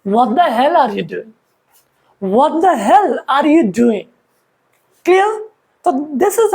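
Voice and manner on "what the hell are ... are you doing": slow, drawn-out angry question; mild mock anger. Shown as a demonstration. Teacher demos a furious question, mildly mock angry. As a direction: lean on hell with a touch of anger. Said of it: "But if you are angry, if you are furious".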